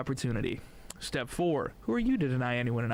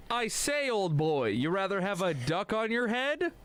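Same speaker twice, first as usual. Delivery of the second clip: clipped wartime posh; 6 semitones higher than usual. Acted. Chap in a duck joke.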